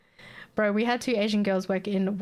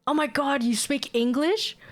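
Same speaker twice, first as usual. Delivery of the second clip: mock amazement, higher and drawn out; amazed stranger; 5 semitones higher than usual. People amazed that the speaker knows English, mock surprise. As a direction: imitate a stranger's slow, astonished question. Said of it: "mixture of people saying".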